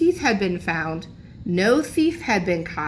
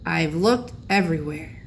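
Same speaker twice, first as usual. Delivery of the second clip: tearful grandpa; 3 semitones lower than usual. A narrator's reading. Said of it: "with tears in his eyes".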